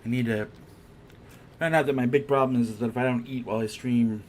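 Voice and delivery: talking through a mouthful of food; chewing while talking. Real, not acted. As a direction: speak while still chewing. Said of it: "I'm chewing".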